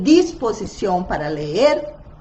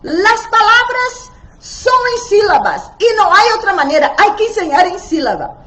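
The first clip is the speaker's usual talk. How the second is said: high, loud know-it-all voice; mock the rigid teacher, louder and higher; imitating a traditionalist; 8 semitones higher, 5 dB louder than usual. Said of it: "Alguien dijo otro día".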